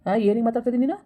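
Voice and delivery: cross elder telling someone off; indignant scolding. Acted. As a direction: demand an explanation, affronted. Grandfather quarrels with younger woman.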